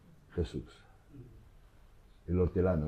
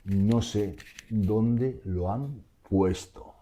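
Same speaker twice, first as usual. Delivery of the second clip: slow honest answer; much slower than usual. Acted. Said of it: "En breve".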